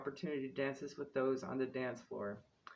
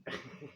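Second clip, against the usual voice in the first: soft laugh; 4 dB quieter than usual. Real, not acted. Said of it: "without laughing".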